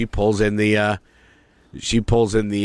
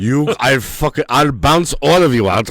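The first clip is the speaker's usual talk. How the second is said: teacher yelling; 4 semitones higher, 4 dB louder than usual. Retold or imitated. Shut-out teacher yelling at the class through the door, mock angry. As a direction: bark the threat like a furious teacher. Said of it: "all you just hear is".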